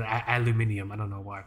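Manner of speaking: British pronunciation, al-yoo-MIN-ee-um; lightly British five-syllable aluminium; British accent. Acted. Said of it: "say with a British accent".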